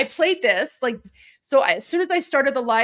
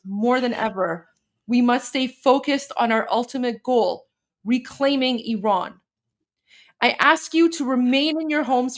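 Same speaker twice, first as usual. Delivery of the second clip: measured, formal delivery of a political message; formal speech reading. Acted. Host translating the exiled leader's message for followers, formal read. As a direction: read the statement out like a solemn address.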